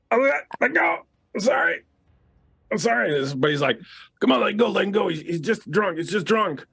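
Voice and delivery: very high, pleading squeal; panicked drunk. Acted. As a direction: beg for mercy in a high squeak. Drunk's wrist being crushed.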